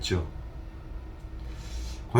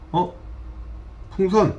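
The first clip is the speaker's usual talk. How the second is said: higher, questioning little call, lightly acted; puzzled cartoon girl; 7 semitones higher, 4 dB quieter than usual. Girl calls after the balloon that flew away, puzzled. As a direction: imitate a bewildered girl, voice pitched up. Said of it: "이 여자애가 말하죠".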